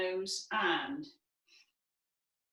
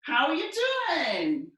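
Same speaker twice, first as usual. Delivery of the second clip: loud, higher calls of ciao; Italian greeting; 7 semitones higher, 8 dB louder, much slower than usual. Shown as a demonstration. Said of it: "And we might say".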